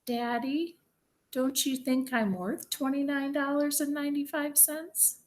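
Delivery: small, high, soft plea; quiet child. A narrator's reading. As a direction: ask dad softly and sweetly. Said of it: "Taya quietly said".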